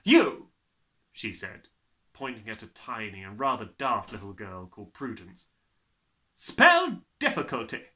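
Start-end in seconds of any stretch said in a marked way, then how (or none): 0.0-0.5 barked command. Acted. Trunchbull pointing at girl. 6.4-7.9 barked command. Acted. Trunchbull commanding girl.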